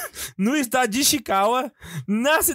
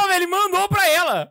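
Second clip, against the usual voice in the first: excited shout; 9 semitones higher than usual. Real, not acted. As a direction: yell it out in disbelief. Reacts to message being sent.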